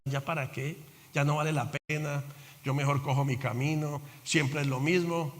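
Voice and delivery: mild hopeless mutter; resigned talk. Retold or imitated. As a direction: sigh it out like a defeated man. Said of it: "formas de hablar".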